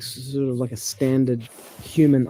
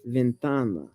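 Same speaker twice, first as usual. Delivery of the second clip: Ventana stressed on TA; penultimate stress; 3 semitones lower, 3 dB quieter, slower than usual. Shown as a demonstration. Explaining the rule to partner, Ventana stressed on TA. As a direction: lean on the middle of Ventana, ven-TA-na. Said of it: "the stress typically falls on the penultimate".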